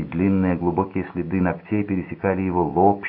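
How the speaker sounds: ordinary delivery, nothing marked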